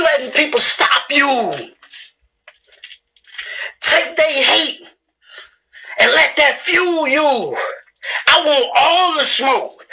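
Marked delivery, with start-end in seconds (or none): 3.8-9.8 slow, shouted, breaking with feeling; fired-up shout. Real, not acted. Urging viewers to use the hate as fuel, slow cracking shout. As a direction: roar it out slowly, voice cracking.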